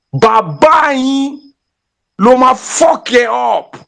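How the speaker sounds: slow, drawn-out defiant yell; drawn-out protest shout. Real, not acted. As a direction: hurl it out slowly as a rallying cry. Defiant chant at the end of a rant.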